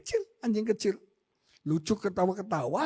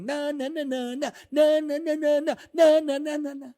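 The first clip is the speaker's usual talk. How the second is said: taunting; 7 semitones higher than usual. Retold or imitated. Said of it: "Dia bilang".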